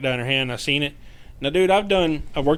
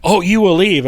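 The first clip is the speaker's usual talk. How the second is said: higher, louder mock threat; insistent retold command; 5 semitones higher, 5 dB louder than usual. Spirit answering investigator's refusal, raised insistent command. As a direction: push back with a raised voice.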